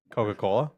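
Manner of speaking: Coca-Cola said with lips apart, no b or p closure; lips not touching. Shown as a demonstration. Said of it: "can you say Coca-Cola without your lips touching".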